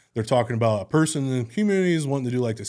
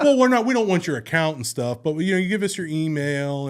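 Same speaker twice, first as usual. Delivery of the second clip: imitated scammer, higher and louder; backpedaling scammer; 6 semitones higher, 5 dB louder than usual. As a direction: hurriedly reassure as a mock scammer. Plays scammer backpedaling after objection.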